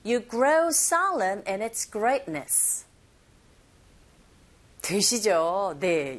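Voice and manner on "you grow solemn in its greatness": "grow solemn" and "greatness" stressed, "in its" linked; slow model sentence, punching "grow", gliding over "in its"; stressed content words. Shown as a demonstration. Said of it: "이렇게 발음 연습하시면 됩니다". ("grow solemn", "greatness"에 강세, "in its"는 가볍게 연음)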